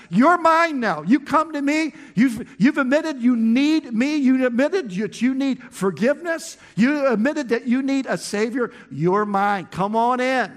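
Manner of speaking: high, loud call of you're mine; booming divine welcome; God's welcoming voice. Acted. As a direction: proclaim it like God calling them home. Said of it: "He says".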